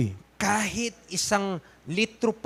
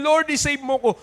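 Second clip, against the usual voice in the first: retold earnest plea; 8 semitones higher, 3 dB louder than usual. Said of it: "Sabi ko sa Panginoon".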